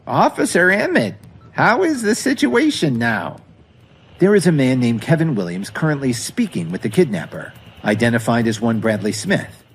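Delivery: put-on high, fussy old lady voice; a proud grandmother who won't believe the worst; elderly grandmother. Grandma Jones pressing the officer about the kidnapping, high and fussy.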